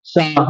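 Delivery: soft سا instead of the hissing sound; wrong soft sa. Shown as a demonstration. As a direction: say سا with a soft s, as the common mistake. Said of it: "نہیں، یہ غلط ہے".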